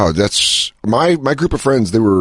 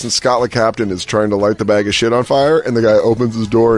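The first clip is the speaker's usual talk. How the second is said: normal talking voice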